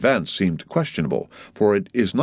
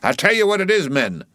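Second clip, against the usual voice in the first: high-pitched call to the men; rousing cry; 11 semitones higher than usual. A narrator's reading. Stubb addresses his boat crew, rousing cry. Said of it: "cried Stubb to his crew".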